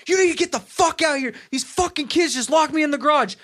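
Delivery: high, fast frantic plea. Retold or imitated. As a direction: reenact a panicked phone call for help. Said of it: "I'm just frantic".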